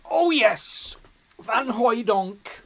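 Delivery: very high, loud joyful yell, name drawn out slowly; goal celebration. Real, not acted. Manager celebrating his striker's goal, ecstatic yell. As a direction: erupt as the ball hits the net.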